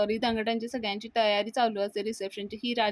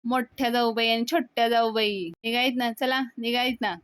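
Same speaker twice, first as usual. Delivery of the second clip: louder call across the room; mildly called out to both sisters-in-law; 4 dB louder than usual. Acted. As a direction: brother calls out to hurry the women along, louder. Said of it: "पाल्या ओरडतो".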